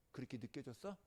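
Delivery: ordinary talk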